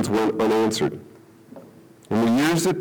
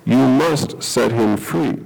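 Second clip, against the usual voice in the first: gentle; 4 dB louder, slower than usual. Acted. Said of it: "And God gently replied".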